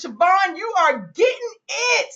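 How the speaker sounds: emphatic read of an excited message; all caps emphasis. Retold or imitated. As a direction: read it as if typed in capitals. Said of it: "in all caps".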